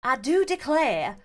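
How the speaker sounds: slow, hammed-up southern drawl; badly faked southern gentleman; southern accent. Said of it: "A deep male voice with a southern accent".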